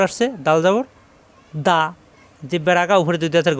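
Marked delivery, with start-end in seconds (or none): 1.7-1.8 short 'দা' with an open aa; quick short da. Shown as a demonstration. Teacher showing dal with zabar, quick short 'দা'. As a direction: say 'দা' quickly, without lingering. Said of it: "হরকতের উচ্চারণ তাড়াতাড়ি".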